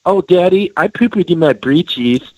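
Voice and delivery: mock posh British kid accent; lightly put-on British kid accent; British child. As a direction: lisp it like a prim British child. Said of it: "when you have a British kid".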